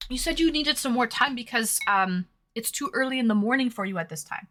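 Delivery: talking while eating; words round a bite of food; mouth full. Real, not acted. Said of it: "Sorry, I'm still eating".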